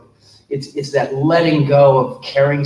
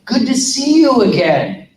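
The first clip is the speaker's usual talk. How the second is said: mock-casual, higher and louder, like an old friend; breezy confident greeting; 11 semitones higher, 5 dB louder than usual. Actor greeting the producer as an old acquaintance, breezy. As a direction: play it cool and familiar. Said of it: "be like".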